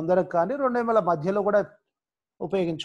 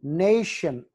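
నేషన్ with the stress on "nay"; నేషన్, strong "nay", falling end; much slower than usual. Shown as a demonstration. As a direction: lean on the start of నేషన్. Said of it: "ఎన్ దగ్గర stress mark".

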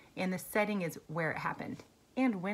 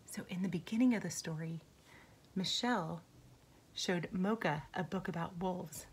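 whispering; 6 dB quieter than usual. Real, not acted. Teacher aside to class.

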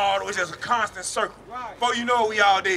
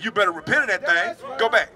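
ordinary talk, nothing marked

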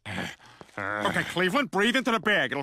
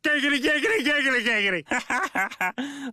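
Peter hamming up Quagmire's giggity; mock leering Quagmire act, higher; imitating Quagmire; 4 semitones higher than usual. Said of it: "Those are so his mannerisms".

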